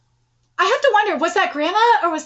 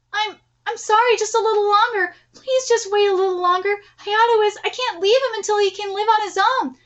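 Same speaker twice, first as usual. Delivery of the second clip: pleading; 5 semitones higher than usual. Acted. Dying grandmother begs for more time.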